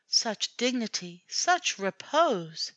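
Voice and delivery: drawn-out, slow admiring sigh; languid admirer. A narrator's reading. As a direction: savour each word slowly. Society ladies admiring cat.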